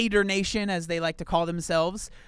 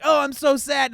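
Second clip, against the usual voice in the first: higher, louder hammed-up whine; mock sad vlogger; 8 semitones higher, 7 dB louder than usual. Mocking a vlogger crying on camera, hammed-up whine. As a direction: overplay the fake sadness. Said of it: "And then I think this, like".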